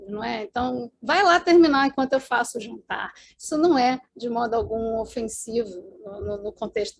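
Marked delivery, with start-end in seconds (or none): 1.0-3.1 direct Brazilian order. Shown as a demonstration. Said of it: "somos mais diretos".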